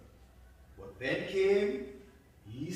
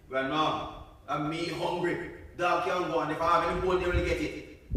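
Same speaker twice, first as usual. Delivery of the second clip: louder, greedy refusal; selfish girl; 6 dB louder than usual. Acted. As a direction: keep it all for yourself. Buddy refuses dogs soup.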